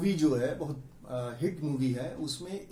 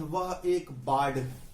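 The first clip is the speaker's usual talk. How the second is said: slow example sentence; 3 semitones lower, slower than usual. Shown as a demonstration. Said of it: "कहते हैं".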